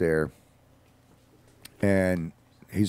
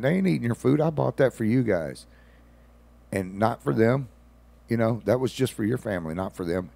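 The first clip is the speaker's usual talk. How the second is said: raised, insistent protest; firm telling off; 5 semitones higher, 3 dB louder than usual. Retold or imitated. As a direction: set them straight, firm and a bit louder. Telling off the neighbour.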